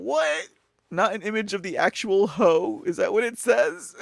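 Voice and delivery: can't believe what you're reading; incredulous. Real, not acted. Host to stream viewers, reading a caption, incredulous.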